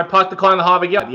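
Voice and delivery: quick Boston accent; lightly put-on Boston twang. Shown as a demonstration. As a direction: rattle it off with dropped Boston r's. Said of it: "has a Boston sentence".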